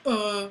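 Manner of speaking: "uh" as the short unaccented French E; plain French E. Shown as a demonstration. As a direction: say "uh" for a bare letter E. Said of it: "We know the letter E is".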